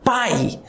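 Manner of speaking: "pai" as one gliding oral syllable; "pai" with the sound through the mouth only; pronunciation demonstration. Shown as a demonstration. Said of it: "quando você pronuncia a fala".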